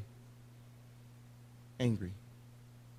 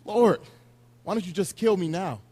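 loud exasperated cry to the Lord; mock tantrum; 4 semitones higher, 6 dB louder than usual. Preacher voicing Jonah's tantrum, mock loud whine. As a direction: throw a mock tantrum at God. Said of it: "he's literally throwing a temper tantrum".

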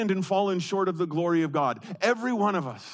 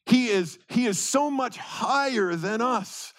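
rising to a slow shout on higher; preaching shout; 5 semitones higher than usual. Acted. Preacher to congregation, God is higher, slow shout. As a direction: proclaim God's greatness at full voice.

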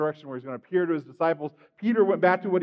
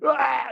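mock wail from the gut; demonstrated gut cry; 6 semitones higher than usual. Shown as a demonstration. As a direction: let out a higher-pitched, acted cry. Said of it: "You ever guys do a gut cry?".

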